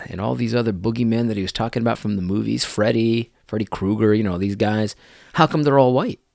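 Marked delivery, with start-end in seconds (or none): 5.3-6.2 high, loud, incredulous laughing question; amused disbelief, pitched up and breaking into laughs; laughing mockery. Real, not acted. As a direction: ask it through laughter. Laughing at his own rebuttal joke.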